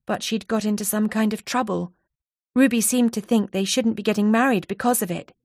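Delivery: lightly voiced anxious friend. Donna recounting Ruby's call.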